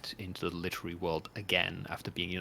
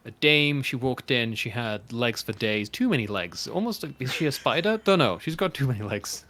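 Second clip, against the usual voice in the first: noir detective; 2 semitones higher, 6 dB louder than usual. Acted. Noir scene-setting, dame walked in.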